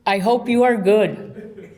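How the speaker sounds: reads the email aloud through giggles; can barely get the words out for laughing; amused reading, laughter breaking in; laughing while reading. Real, not acted. Reading boss's stiff emails aloud.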